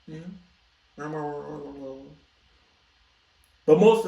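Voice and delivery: lightly voiced sleazy photographer, coaxing; a hint of a smooth creep luring a model; creepy photographer.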